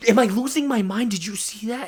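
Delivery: high-pitched, incredulous questioning; retold bewildered squeal; frantic disbelief. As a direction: ask as if doubting your sanity. Acted disbelief to coworker.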